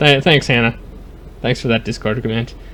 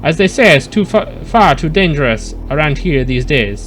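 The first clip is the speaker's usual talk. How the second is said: put-on French accent. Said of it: "You didn't like my French accent?".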